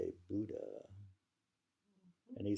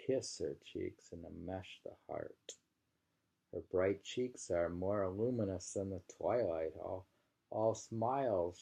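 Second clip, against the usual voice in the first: poetry reading. Acted. Reading a love poem aloud to her co-host, measured and lingering. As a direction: savour each image of the poem.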